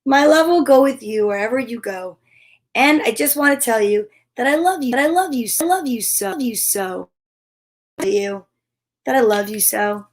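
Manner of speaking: tender read-aloud, fading at the end; reading to children. Acted. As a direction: read it tenderly, letting it trail off.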